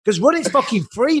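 retelling his line as a mock impression; mimicking Jason. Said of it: "He's like".

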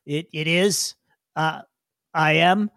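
lightly voiced hesitant little creature; halting, a touch confused; flustered digger. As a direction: stumble over a simple answer. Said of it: "the little guy goes".

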